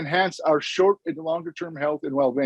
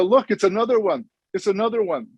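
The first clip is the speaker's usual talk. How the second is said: lightly acted onlookers, pitched higher; villagers calling out; 5 semitones higher than usual. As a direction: call it out higher, falling at the end. Villagers call out at second animal.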